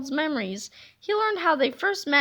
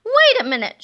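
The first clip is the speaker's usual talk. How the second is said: loud, higher startled shout; villain shout; 6 semitones higher, 8 dB louder than usual. Acted. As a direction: stop everything, baffled. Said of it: "shouted Sir Stinks-a-Lot".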